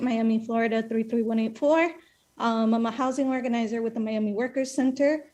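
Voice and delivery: breathless, just ran in; out of breath from running. Real, not acted. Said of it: "I'm out of breath".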